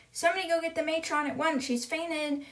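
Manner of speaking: quick, high call for help; retold urgent teacher, fast and high. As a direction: send for help in acted alarm.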